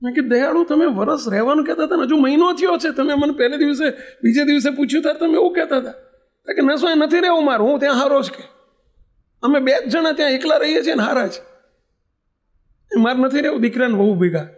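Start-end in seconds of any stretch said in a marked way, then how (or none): 0.3-5.9 raised pitch, asking why he leaves; higher, earnestly questioning; puzzled pleading. Retold or imitated. Swami questions the old man. 6.6-14.5 higher, pained insistence; firm, hurt no; upset refusal. Retold or imitated. Old man refuses, upset.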